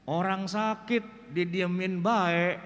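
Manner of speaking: slow Betawi saying with "bae" drawn out; dialect quote. Retold or imitated. Quoting the village saying, slow Betawi drawl.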